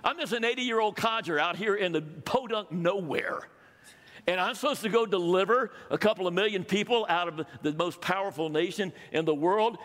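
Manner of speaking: a mock protest, are you crazy; incredulous Moses. Moses protests to God that he's too old, incredulous. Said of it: "the way we would put it".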